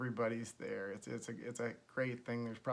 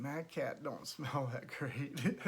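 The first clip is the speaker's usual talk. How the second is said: laughing aside; slower than usual. Retold or imitated. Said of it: "but I'm going".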